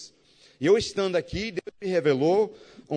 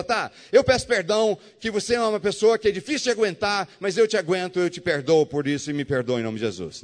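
condescending fake apology; 4 dB louder than usual. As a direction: apologise while looking down on him. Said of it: "Isso é pedir perdão?".

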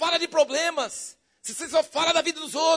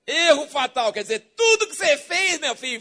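ordinary talk

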